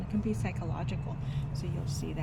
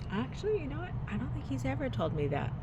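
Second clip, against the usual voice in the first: surprised realization; 8 semitones higher than usual. Retold or imitated. Retelling her surprised reply.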